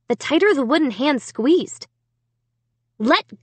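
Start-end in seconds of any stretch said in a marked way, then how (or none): 3.0-3.3 high, panicked command; frantic raised-pitch shriek. A narrator's reading. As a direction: cry it out urgently. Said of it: "I shrieked".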